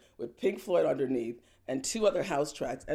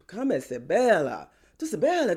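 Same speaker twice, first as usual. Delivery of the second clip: beckoning woman; 3 semitones higher, 6 dB louder than usual. Retold or imitated. Singer calls her over.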